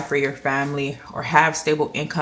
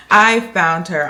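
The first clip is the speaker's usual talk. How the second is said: relieved cry; 3 semitones higher, 9 dB louder than usual. Real, not acted. Relief at finding binder.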